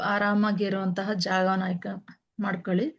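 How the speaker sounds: slightly softened meditation guide, long pauses between instructions; guided meditation. Real, not acted. Teacher guiding listeners to sit and close their eyes, calm meditation voice. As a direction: settle them in gently, one instruction at a time.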